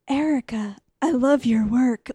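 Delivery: a hint of a film-star doctor impression; Keanu voice. Sexy doctor greeting Erica, lightly imitated Keanu voice. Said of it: "He talks in his Keanu voice".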